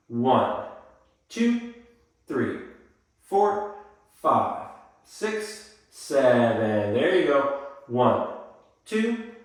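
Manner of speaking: counting beats in time, pitch jumping; sing-song counting of the steps; rhythmic dance count. Shown as a demonstration. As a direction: call the beats for the class.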